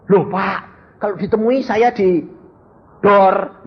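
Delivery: high-pitched objection; protesting debtor. Acted. Debtor protests to pastor about facing the lender, high-pitched objection.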